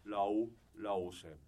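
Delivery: "ラオシェン" with ao, not au; German diction demo of "ラオシェン"; pronounced raoshen. Shown as a demonstration. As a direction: say "ラオ、ラオシェン" with an o glide. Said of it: "ラウシェンと書いてラオーシェンと読みましょう".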